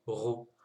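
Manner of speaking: rou: r suivi d'un ou; wrong vowel take. Shown as a demonstration. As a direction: montrer la voyelle à éviter. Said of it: "on ne cherche pas à dire". (r avec voyelle, à ne pas faire)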